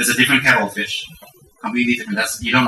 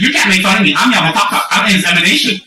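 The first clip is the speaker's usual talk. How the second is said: higher-pitched indignant child impression; naughty little Rinpoche; 4 semitones higher than usual. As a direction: protest like a self-important little one. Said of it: "one little Rinpoche, a little naughty one".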